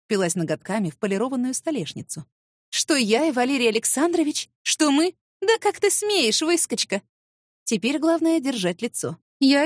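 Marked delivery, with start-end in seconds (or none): 2.7-7.0 indignant outburst. Acted. Rival outraged, insulting her.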